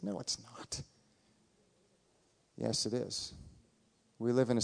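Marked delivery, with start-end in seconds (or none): 0.0-0.8 soft, high-pitched disbelief; imitated incredulous reply, hushed and pitched up; retold denial. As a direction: squeak out a quiet contradiction. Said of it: "looked at her and said".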